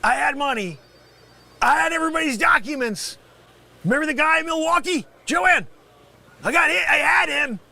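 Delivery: loud, high wailing lament; loud, high lament after being scammed; anguished outcry. Acted. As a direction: cry out over everything he lost.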